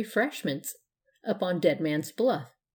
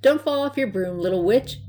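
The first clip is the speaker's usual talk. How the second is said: fond, lifted farewell call; 4 semitones higher, 6 dB louder than usual. A narrator's reading. Lady sees Blanche off down the steps, fond. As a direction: call goodbye affectionately, raised and loud. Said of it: "said one lady fondly".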